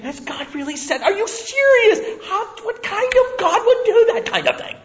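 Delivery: high, laughing mock outrage; mocking serpent. Serpent laughing at God's command to Eve. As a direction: scoff through a laugh. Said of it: "He's saying".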